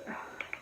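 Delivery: long breathy exasperated sigh. Retold or imitated. Student reacting to counselor's advice, retold, exasperated sigh. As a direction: sigh out as if fed up.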